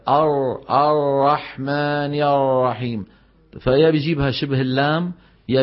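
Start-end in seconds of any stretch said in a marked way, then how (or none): 0.1-3.0 "الرحمن الرحيم" with the ra said like lam or ghain; wrong ra sound. Shown as a demonstration. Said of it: "بيقول لك". (راء منطوقة خطأ)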